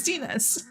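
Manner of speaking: Dines said slowly as "dee-nus", like Ines with a D; slow "Dines", dee-nus, stress on the first syllable; correct pronunciation. Shown as a demonstration. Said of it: "Like Ines, but with a D".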